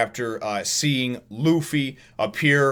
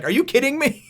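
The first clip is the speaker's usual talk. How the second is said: exasperated Zoro. Retold or imitated. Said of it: "he's just like".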